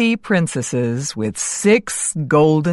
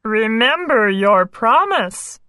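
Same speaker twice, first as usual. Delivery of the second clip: smiling; 2 semitones higher than usual. Acted. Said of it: "he smiled".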